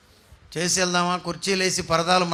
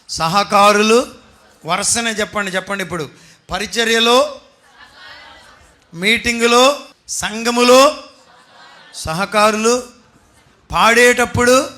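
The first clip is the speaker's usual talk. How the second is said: preaching shout; 3 semitones higher, 6 dB louder than usual. Real, not acted. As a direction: build the preaching to a loud peak. Preaching rises to loud climax. (సంఘాన్ని ఉద్దేశించి గట్టిగా బోధించే స్వరం)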